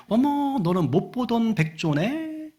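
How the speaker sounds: high, slow put-on swan voice; curious swan. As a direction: greet a newcomer in acted surprise. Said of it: "이렇게 묻는 거예요".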